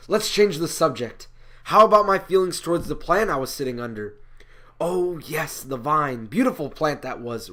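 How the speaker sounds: theatrical, emphatic monologue delivery; lightly acted prophet, musing aloud; Jonah changing the subject. Jonah recalling his beloved vine to an audience, declaimed.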